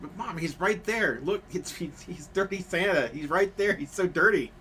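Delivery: high, loud imitation of an excited child; insistent little girl. Little girl to her mom about Santa, insistent. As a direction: mimic a kid pointing out a scandal to her mom. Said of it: "her daughter is trying to".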